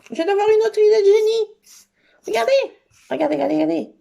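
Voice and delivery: high, loud, fast rush of excitement; real excitement over a new idea; excited burst. Real, not acted. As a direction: blurt out the new idea, thrilled. Announces a brilliant new idea.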